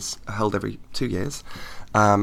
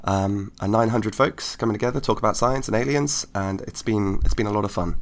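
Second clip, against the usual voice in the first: croaky voice. Real, not acted. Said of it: "As you might be able to tell from my croaky voice".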